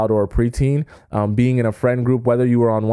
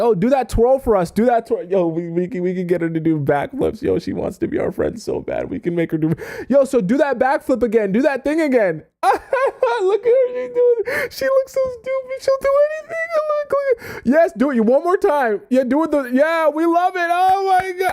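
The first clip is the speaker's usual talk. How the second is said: very high, swooping, goading fake-cheering taunts. Acting out people coaxing someone to perform for them: imitating mocking placation. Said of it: "they might placate you and be like".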